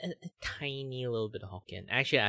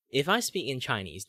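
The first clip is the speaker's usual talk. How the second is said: Chinese default tone; 4 semitones higher, 5 dB louder than usual. Shown as a demonstration. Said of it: "this is, like, the pitch you would normally hear".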